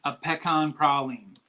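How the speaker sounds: "pecan praline" as slow PECK-ahn PRAH-leen; wrong-sounding local pronunciation. Shown as a demonstration. Trying what sounds so wrong, "pecan praline" as PECK-ahn PRAH-leen. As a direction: spell out "pecan praline" slowly with open ahs. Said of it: "that just sounds so wrong".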